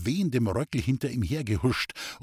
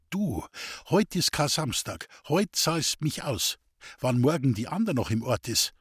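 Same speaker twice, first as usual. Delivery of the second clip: usual speaking voice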